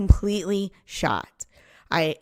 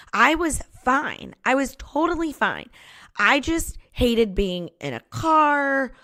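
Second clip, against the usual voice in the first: mock indignant protest; 4 semitones higher than usual. Wife refusing husband's advice to see a doctor, mock indignant. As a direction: protest too much, stretching words in a higher pitch.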